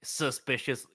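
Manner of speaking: put-on guard's accent slipping into southern; accidental southern accent. Guard refusing to speak with suspicious visitors, southern accent. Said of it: "Why am I going southern".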